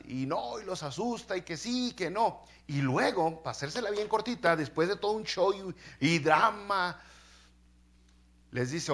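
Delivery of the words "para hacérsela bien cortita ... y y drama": usual speaking voice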